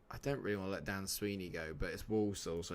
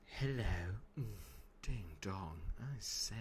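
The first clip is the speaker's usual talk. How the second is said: soft, hammed-up camp catchphrases; 5 dB quieter than usual. Streamer showing Rachel his inner campness, softly camp. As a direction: put on a camp little facade. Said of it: "I can put on quite a camp".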